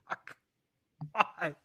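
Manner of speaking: soft, slow, baffled mutter; stunned disbelief. Real, not acted. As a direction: drag it out quietly as if you can't believe it. Disbelief at the match result.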